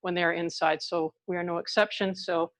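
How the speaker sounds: muffled behind a face mask; through a face mask. Real, not acted. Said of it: "I'm wearing a mask right now".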